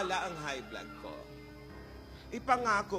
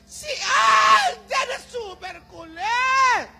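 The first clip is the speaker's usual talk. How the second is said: slow, loud grandma shout; shouted complaint; 4 semitones higher, 5 dB louder, much slower than usual. Acted. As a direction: drag it out and yell. Complaining about Alden.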